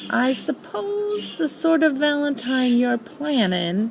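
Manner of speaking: a lightly voiced gloomy donkey; a hint of a slow, mopey rumble. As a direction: drag it out like a weary old donkey. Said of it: "rumbled Eeyore in his very slow way".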